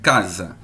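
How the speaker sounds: low casa, k with no buzz; only the a vibrates in casa; voiceless k demo. Shown as a demonstration. Teacher shows class a voiceless consonant. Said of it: "Se você botar a mão aqui".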